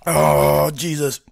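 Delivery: loud pained outburst; blurting it out in pain; after eating wasabi. Real, not acted. Burning after spoonful.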